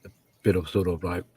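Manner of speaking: chewing while talking. Real, not acted. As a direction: mouth full, talking through food. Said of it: "sorry, I'm munching".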